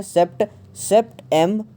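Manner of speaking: "सेप्ट-, सेप्टेम-" built up one syllable at a time; syllable breakdown. Shown as a demonstration. Teacher splitting September into three syllables, "सेप्ट-, सेप्टेम-" sounded out piece by piece. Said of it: "यहाँ पे total three syllable हैं".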